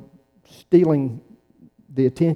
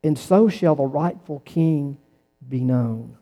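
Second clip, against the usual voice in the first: solemn recitation. Shown as a demonstration. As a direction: recite it like a legend being told.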